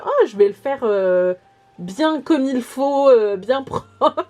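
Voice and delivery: slow, drawn-out good intentions, breaking into laughter; mock earnest resolve. Vlogger quoting her plans for a tidy notebook, mock earnest. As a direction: lightly mimic your own neat-notebook ambition, laughing.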